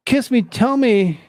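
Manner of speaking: mocking the screaming woman loudly; mock crazed yell. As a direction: ham up the airport lady's rant. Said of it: "Woman loses her absolute mind".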